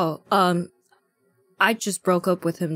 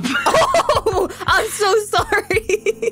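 exaggerated sympathy; 11 semitones higher, slower than usual. Mock sympathy over breakup.

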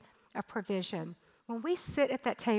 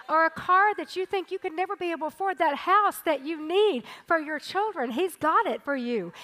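preaching louder; 4 semitones higher, 5 dB louder than usual. Acted. Preaching climax.

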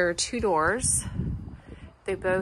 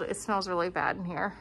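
muffled. Real, not acted. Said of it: "I'm sorry I'm muffled".

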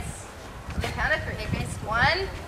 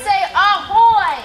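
pirate ahoy prompt; 6 semitones higher, 10 dB louder, much slower than usual. Shown as a demonstration. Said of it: "Can you, mates".

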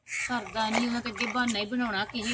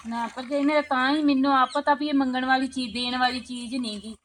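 desperate plea; 2 semitones higher, 4 dB louder than usual. Acted. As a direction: rise up in desperation as she begs. Pammo begs desperately.

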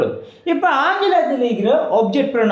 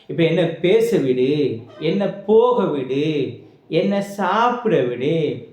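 slow, stretched-out example sentences; measured example reading; 2 semitones lower, slower than usual. Shown as a demonstration. Teacher giving pupils everyday examples, slow and drawn out. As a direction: list each one slowly.

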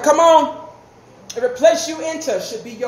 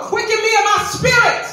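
fervent preached plea; 6 semitones higher than usual. Acted. Cries out prayer line in sermon.

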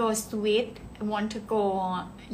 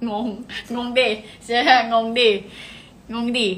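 much louder, fast playful jab; excited teasing; 7 dB louder, much faster than usual. Real, not acted. Streamer teases viewers who are confused by the comments, excited. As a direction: tease the chat, laughing at the confusion.

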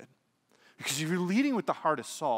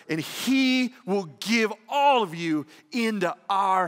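full-force preaching; 9 semitones higher, 11 dB louder than usual. Acted. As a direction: thunder it out from the pulpit, slowing at the end. Preaching David's speech at full force.

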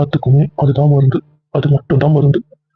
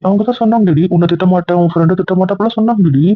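high-pitched, insistent protest; indignant, much higher; indignant insistence; 4 semitones higher than usual. Acted. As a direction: push back high and hard.

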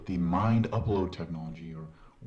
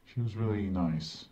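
game character. Acted. In-game doctor voice.

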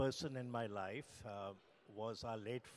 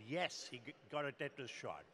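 mildly proud retold reply; proud answer. Doctors answering the father on the phone, mildly proud. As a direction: answer with a touch of pride on the yes. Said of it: "very proudly they said".

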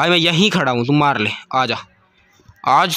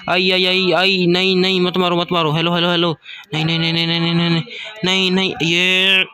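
rapid repeated pleading, pitched up; gamer panic; 3 semitones higher than usual. Real, not acted. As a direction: beg for mercy mid-fight. Begging as his health drops.

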